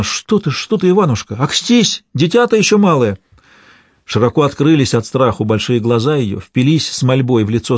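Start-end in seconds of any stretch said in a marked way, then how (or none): 0.0-3.2 frightened cry. A narrator's reading. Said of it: "Задрожала вся и вскрикнула".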